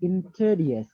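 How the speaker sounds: "introduce" in an Australian accent, said like "intedyuh". Shown as a demonstration. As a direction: do the Australian "introduce", dropping the middle sounds. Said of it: "Australian people say introduce".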